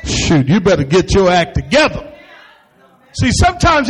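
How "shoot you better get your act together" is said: lower, scolding mother; a hint of an exasperated mother; fed-up mom. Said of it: "your mom said".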